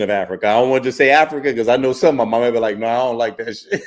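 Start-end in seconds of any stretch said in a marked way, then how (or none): 2.8-3.9 laughing through a pretend retort; playful imagined comeback, laughing; laughing mock reply. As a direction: giggle through the words in a pretend voice. Imagining an offended listener, playful.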